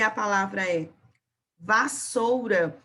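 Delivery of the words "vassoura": vassoura spoken slowly, each syllable separated; slow teacher demonstration of syllables; slow syllable demo. Shown as a demonstration. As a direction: stretch vassoura slowly so kids hear the split. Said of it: "um S vai ficar nas sílabas V".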